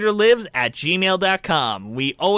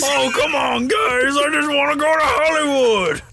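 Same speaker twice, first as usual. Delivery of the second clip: high whiny pleading shout; 8 semitones higher than usual. Pretend. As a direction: beg to be taken along. Voicing Sweetums left behind.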